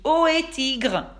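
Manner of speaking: loud drawn-out call to Tiger. A narrator's reading. Elmer hails Tiger from afar, loud call. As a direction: call across to him. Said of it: "il lui crie".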